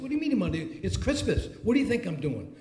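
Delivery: high-pitched, put-out reply; retold incredulous annoyance. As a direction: act out being bothered on Christmas, pitch falling at the end. Retold Christmas phone call, annoyed reply.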